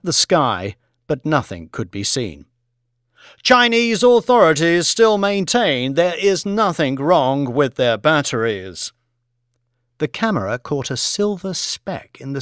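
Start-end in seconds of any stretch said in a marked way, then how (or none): 3.4-8.9 high start, settling down; TV news reporter. Acted. Reporter relays what Chinese authorities maintain, news reporter voice. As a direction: report it live to camera. Plays BBC reporter on air.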